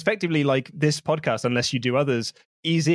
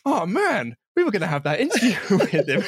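mock disappointment; 5 semitones higher than usual. Retells disappointed message about lost interview.

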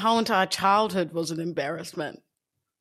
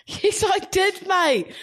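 whisper; 9 semitones higher, slower than usual. Real, not acted. Teasing back to co-host.

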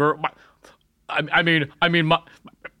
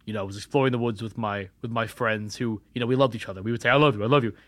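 softer, lower spooky telling; hushed confession; 6 semitones lower, 7 dB quieter than usual. Acted. Cursed boy confessing to Nessie, hushed. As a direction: lean in and whisper your curse.

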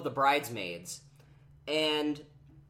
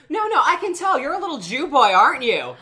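high, loud pushy insisting; aggressive insistence; 11 semitones higher, 12 dB louder than usual. Retold or imitated. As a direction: press it on him, way up high and loud. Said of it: "half-sided conversation of".

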